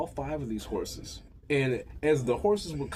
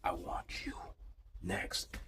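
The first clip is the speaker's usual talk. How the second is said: low, soft, seductive murmur; sultry low line; 7 semitones lower, 11 dB quieter, slower than usual. Retold or imitated. The wife inviting him next, low and sultry. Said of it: "she's like".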